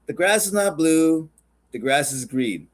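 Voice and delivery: lightly annoyed tiger, slow and deliberate. Acted. Tiger correcting the donkey's claim, mildly annoyed. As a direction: spell it out slowly with mild annoyance. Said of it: "annoyed, looks at him and says".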